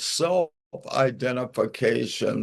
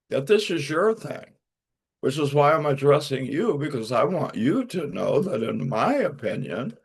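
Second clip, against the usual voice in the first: higher-pitched, emphatic challenge, retold; retold accusation; 4 semitones higher than usual. Friend accusing Reverend Carlos of making it up, retold challenge. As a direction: press the objection with pitch leaps on key words.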